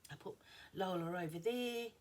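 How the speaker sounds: talking through a yawn; words stretched by a yawn. Real, not acted. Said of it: "Sorry if I yawn".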